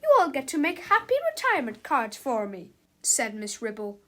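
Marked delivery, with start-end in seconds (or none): 0.0-2.7 high, loud teacher voice; raised, strident announcement; stern teacher. A narrator's reading. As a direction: announce it over a noisy classroom. Acted teacher addressing her class.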